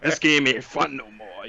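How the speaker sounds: a lightly voiced whiny quit, drawn out; mock the friends who quit playing, slowly; imitating sulky friends. Retelling how friends quit on him, mild mock whine. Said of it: "they was like".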